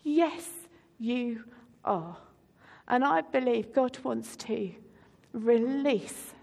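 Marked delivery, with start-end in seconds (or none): 0.0-2.2 much softer, gentle yes you are; hushed, tender affirmation; soft assurance. Retold or imitated. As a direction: quietly reassure someone. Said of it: "God says".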